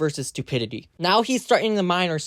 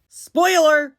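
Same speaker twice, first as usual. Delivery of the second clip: mock announcement; 10 semitones higher, 7 dB louder than usual. Real, not acted. Mock announcement before clip.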